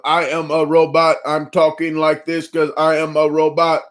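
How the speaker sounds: a hint of a stiff robot; Conan O'Brien robot voice. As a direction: toy robot voice, lightly done. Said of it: "He goes".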